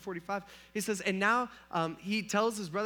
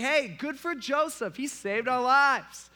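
cheering servants; 7 semitones higher, 6 dB louder, slower than usual. Retold or imitated. Pharaoh's servants voiced cheering.

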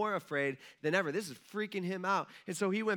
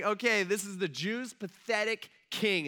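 mock-announce it slowly, pitched up; retold jeer in a raised, drawn-out voice; 5 semitones higher than usual. Soldiers presenting Jesus as a joke king, mocking. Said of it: "so they're mocking".

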